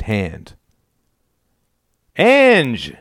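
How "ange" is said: high, loud cheery greeting; grinning call. A narrator's reading. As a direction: call her name through a grin. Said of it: "he grinned".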